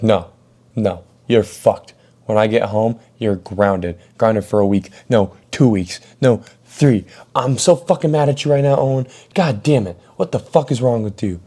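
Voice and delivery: mom scolding her son over the phone, escalating to a mock yell; angry mom. Mom grounding Owen over the phone, rising angry yell.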